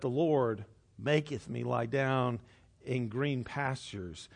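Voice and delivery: tender, slow reading of the psalm; softly grateful. Shown as a demonstration. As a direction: savour each word thankfully. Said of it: "I'm thankful".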